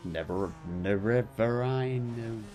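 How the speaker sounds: "Nerevarine" stumbled over, slow and unsure; fumbled pronunciation. Shown as a demonstration. Sounding out "Nerevarine" while choosing a title, slowly. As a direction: sound out "Nerevarine" and give up partway. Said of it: "I can actually pronounce it properly".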